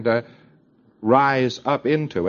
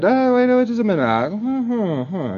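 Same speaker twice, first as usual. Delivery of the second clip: sudden excitement; 7 semitones higher than usual. Retold or imitated. Pre-clear suddenly recalling something.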